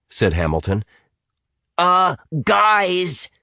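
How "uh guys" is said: urgent. A narrator's reading. Atticus urging the others to look up, urgent. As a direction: try to get their attention now. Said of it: "said Atticus more urgently".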